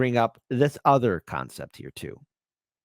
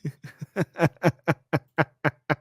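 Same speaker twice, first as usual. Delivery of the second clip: laughter; 3 semitones higher than usual. Real, not acted. Laughing after Putin's answer.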